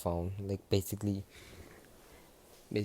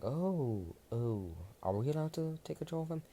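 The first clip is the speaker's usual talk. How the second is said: eager high question; 6 semitones higher than usual. Acted. Deku asking eagerly.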